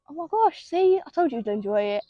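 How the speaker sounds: high "oh my gosh", settling into I-told-you-so; retold excited mum. Mum to child who enjoyed the club, mildly excited imitation. Retold mum's delighted reaction.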